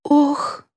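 high little dog sigh; a dog's plaintive oh. A narrator's reading. Dog hanging from the ceiling, plaintive oh. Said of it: "издала Мафия".

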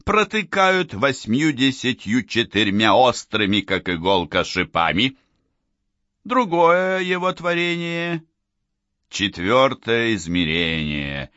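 lightly voiced showman hosting the crowd; booming circus ringmaster. Showman addresses the audience.

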